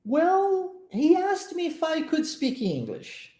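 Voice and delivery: high model delivery. Shown as a demonstration. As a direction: say it high and drawn out, as the friend would. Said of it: "vamos pra frase". (frase modelo dita bem aguda, com "Well" alto)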